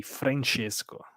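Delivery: Francesco slow and careful, stressing Fra; correct name. Shown as a demonstration. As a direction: spell out Francesco with a clear Fra. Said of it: "you wrote my name in a very wrong way".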